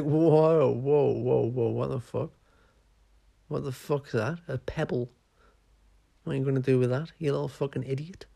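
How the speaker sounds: mock-incredulous jeering monkey; a monkey soldier scoffing at a pebble; mocking monkey man. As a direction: jeer at the tiny squirrel like a lout.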